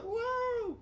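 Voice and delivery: very high, drawn-out whoa; amazed whoa. Retold or imitated. Friend reacting to a trick, amazed whoa. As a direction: gasp it out like on a roller coaster. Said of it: "You're supposed to be like".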